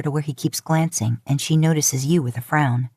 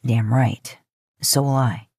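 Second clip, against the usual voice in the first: lower, resolute promise; firm Sam; 4 semitones lower, slower than usual. Acted. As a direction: back her up firmly, a bit deeper. Sam's firm support.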